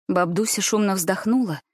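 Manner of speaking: plain reading voice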